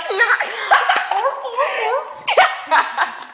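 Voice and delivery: high croaky frog-like noise while laughing; imitated throat bubbling. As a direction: mimic a friend's bubbling throat sound. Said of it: "The way you're like".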